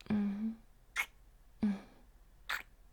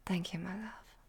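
whispering; 3 semitones lower, 5 dB quieter than usual. Acted. Intimate roleplay, soft words.

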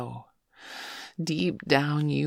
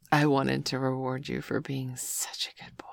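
sensual whisper. Acted. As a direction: whisper it close and intimate.

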